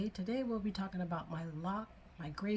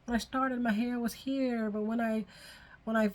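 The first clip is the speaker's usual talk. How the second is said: higher-pitched, lightly imitated dismay; mild retold upset; 5 semitones higher than usual. Recalling the early hair growth, mildly upset. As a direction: replay your worry in a higher voice. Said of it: "I got upset with my head".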